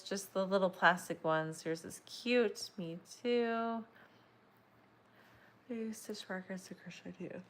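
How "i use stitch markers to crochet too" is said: words swallowed by a yawn. Real, not acted. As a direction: talk straight through a big yawn. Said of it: "sorry guys, I'm sorry".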